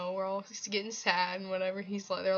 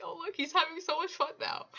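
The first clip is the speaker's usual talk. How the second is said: high, louder delighted squeal of words; retold excited gushing; 9 semitones higher, 6 dB louder than usual. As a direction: gush it like a thrilled fan. Retells her delighted reaction at concert.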